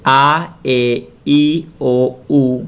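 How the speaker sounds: आ, ए, ई, ओ, ऊ as separate, full vowels; Spanish vowel sounds. Shown as a demonstration. Teacher shows Spanish pronunciation, saying आ, ए, ई, ओ, ऊ distinctly. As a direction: give each of आ, ए, ई, ओ, ऊ its own beat. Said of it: "Spanish में pronunciation कैसे करते हैं".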